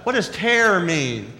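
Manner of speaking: each word spelled out slowly for the speaker; talking to a smart speaker, slow and deliberate; slow, careful command to Alexa. Retold or imitated. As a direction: speak slowly and clearly so the device understands.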